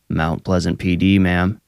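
ordinary delivery

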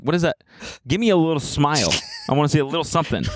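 put-on lilting parent-to-baby voice; coaxing a baby. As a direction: coax a little smile out of an infant. Retold dad coaxing baby to smile.

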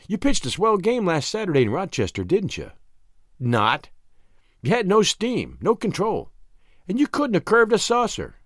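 lightly mocking, arch woman's voice; arch teasing. A narrator's reading. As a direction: taunt him playfully, pitch lifting. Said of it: "Nan was saying archly".

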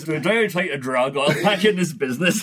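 light West Country burr; a hint of West Country, in the style of a singer; West Country accent. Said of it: "You have to read that in a, in a West Country accent".

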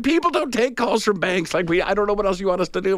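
high, exasperated caller imitation; retold exasperation, pitched well up; losing it. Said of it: "losing it".

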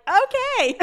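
high, meek little okay. Retold or imitated. Imitating him after being smacked away, high and meek. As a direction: squeak it out, startled and meek. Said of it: "And he was like".

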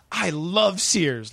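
slow, syrupy ad read; milk the tagline slowly; cheesy tagline. Retold or imitated. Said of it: "how cheesy his tag was".

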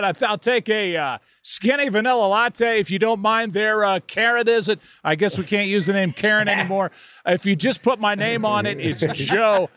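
ordering coffee in a lightly voiced broadcaster tone; hint of a ballpark announcer. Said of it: "nobody talks like that".

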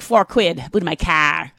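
loud mixed London-Boston voice; half-hearted Boston accent; muddled Boston accent. Retold or imitated. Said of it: "I always mix up London and Boston accents".

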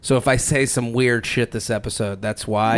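groggy from a red eye; worn out, half-asleep delivery; delirious. Real, not acted. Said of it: "I'm, like, delirious right now".

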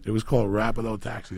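high and loud, worked up; telling friends about the coke taxis, high and loud; excited. Real, not acted. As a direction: pitch it up with disbelief. Excited telling of taxi scam.

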